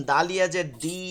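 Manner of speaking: final "দি" held long; vowel drawn out. Shown as a demonstration. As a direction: spell it out, stretching the vowel of "দি". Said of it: "এখানে টান দিছেন".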